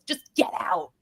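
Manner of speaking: hushed, breathy get out from the judge; whispered dismissal. Retold or imitated.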